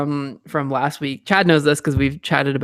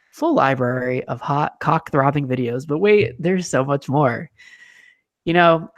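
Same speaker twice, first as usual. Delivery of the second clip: ad read. Acted. Reading sponsor ad.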